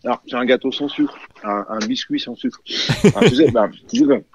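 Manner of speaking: chewing while answering; words round a bite of biscuit; mouth full. Real, not acted. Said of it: "parler la bouche pleine en radio". (en mâchant un biscuit)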